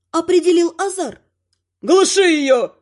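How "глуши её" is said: raised, urgent yell; shout. A narrator's reading. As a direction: call out an order in the commotion. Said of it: "кричит кто-то".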